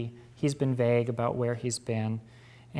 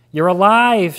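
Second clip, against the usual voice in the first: loud, high, overwhelmed cry; tearful cry; 7 semitones higher, 15 dB louder than usual. Acted. Sister finding her lost brother alive, loud tearful cry. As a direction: cry it out, close to tears. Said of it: "shook with tears".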